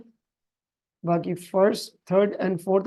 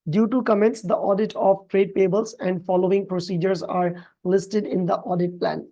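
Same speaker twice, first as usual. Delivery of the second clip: reads the English question out slowly and evenly; slow, careful reading of an exam question; much slower than usual. Acted. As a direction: read each phrase of the question slowly.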